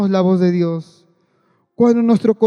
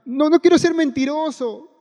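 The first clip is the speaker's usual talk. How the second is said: pleading complaint; 5 semitones higher than usual. Retold or imitated. Retold protest to God.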